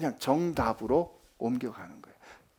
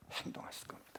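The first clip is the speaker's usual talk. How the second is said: whisper; 21 dB quieter, faster than usual. Acted. Preacher drops to a hush.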